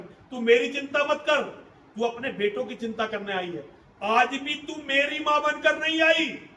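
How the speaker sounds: a son's wounded fury, lashing out at his mother; Karna's bitter rebuke. Acted. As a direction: accuse her, building to bursts of loudness. (कर्ण का माँ पर कड़वा गुस्सा)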